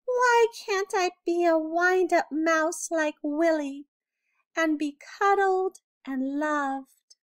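wishing to be loved like Willie; wistful. A narrator's reading. Envious mouse Alexander alone in the dark, wistful. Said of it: "he sighed".

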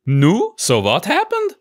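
put-on high, eager Yiddish accent; curious crowd, Yiddish accent. Community asks rabbi.

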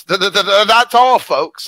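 high, loud stuttering cartoon pig; Porky Pig stutter. Pitching a Looney Tunes outro as a high Porky Pig stammer. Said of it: "the actual line from Looney Tunes".

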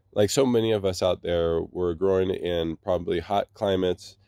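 stuffy, congested voice. Real, not acted. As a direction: speak through a blocked nose. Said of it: "forgive me, my voice, I, I'm just, um, s-, a little congested".

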